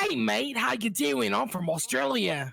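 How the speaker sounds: a hammed-up Australian accent, greeting a mate; lightly put-on Australian accent; playful fake Australian accent; mock Australian accent. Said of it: "let me do it".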